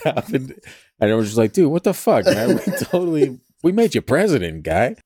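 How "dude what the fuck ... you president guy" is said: high, indignant yelling dude; betrayed bro complaining; outraged dude. Retold or imitated. Angry voters confronting president.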